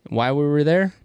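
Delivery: talking around a pipe stem; pipe in mouth. Real, not acted. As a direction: speak with a pipe clenched in teeth. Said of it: "I wanna talk really weird".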